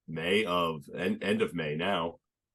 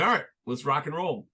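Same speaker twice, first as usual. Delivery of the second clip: pumped up; 8 semitones higher, 3 dB louder than usual. Retold or imitated. Decides to fight cancer.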